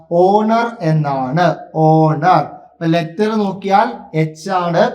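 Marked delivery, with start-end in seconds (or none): 0.1-0.7 "ഓണർ" slowly, starting on a long O; pronunciation demo. Shown as a demonstration. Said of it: "ഇതെങ്ങനാ pronounce ചെയ്യുക?". 1.7-2.4 louder, drawn-out "ഓണർ" with silent H; pronunciation demo. Shown as a demonstration. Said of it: "ഇതെങ്ങനാ pronounce ചെയ്യുക?".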